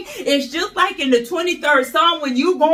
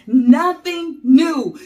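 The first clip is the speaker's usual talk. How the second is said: slow, loud and emphatic; preacher's shout; 4 dB louder, slower than usual. Acted. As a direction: hammer each word home to the congregation.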